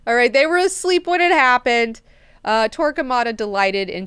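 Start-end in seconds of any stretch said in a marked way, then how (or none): 0.1-2.0 defensive ruler. Retold or imitated. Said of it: "he's like".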